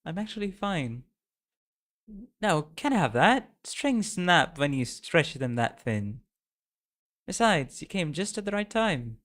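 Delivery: put-on high, earnest young girl's voice. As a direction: play the friend urging her on. Reads game character's lines.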